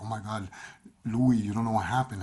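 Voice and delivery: alarmed rush as she breaks the news; freaking out. Retold or imitated. Ex-wife calls Louis late at night, freaking out. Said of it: "freaking out".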